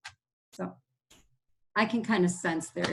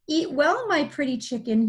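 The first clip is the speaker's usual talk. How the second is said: a touch higher, calling sweetly to the chicken; lightly voiced wolf calling out; 5 semitones higher than usual. Teacher voicing the wolf calling to the chicken, lightly sly. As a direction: call out like a scheming wolf, lightly. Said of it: "he cried".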